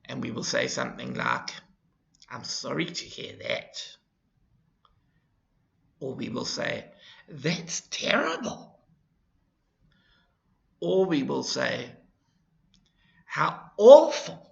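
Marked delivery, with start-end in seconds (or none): 2.3-4.0 sad. Shown as a demonstration. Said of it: "our voice changes again". 7.3-8.7 higher, sorrowful sympathy; sad sympathy. Shown as a demonstration. Teacher showing a sad sympathetic tone. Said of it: "our voice changes again". 13.2-14.4 loud, breathy sorrowful gasp; sad. Shown as a demonstration. Teacher demonstrating sadness to students, loud and breathy. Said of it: "our voice changes again".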